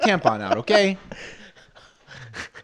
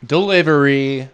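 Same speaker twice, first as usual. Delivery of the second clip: podcast sign-off. Acted. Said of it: "thanks for listening to the Trash".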